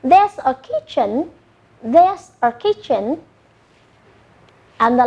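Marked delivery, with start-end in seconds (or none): 0.0-3.2 slow model phrase. Shown as a demonstration. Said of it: "Next picture".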